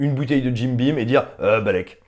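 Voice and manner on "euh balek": put-on Scottish accent, pitched lower. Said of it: "avec son accent écossais".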